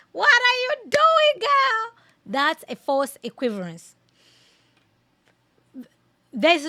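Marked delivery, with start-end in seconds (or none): 0.1-2.0 high, loud squealed scolding; mock exasperation. Reactor teases Candace over false equivalence, high mock-exasperated cry. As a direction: wail it in comic disbelief, much higher and louder.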